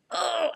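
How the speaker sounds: high frustrated exclamation; rattled, frustrated "oh". Retold or imitated. Mom rattled after closing the door, frustrated groan. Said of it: "I was rattled. I was frustrated".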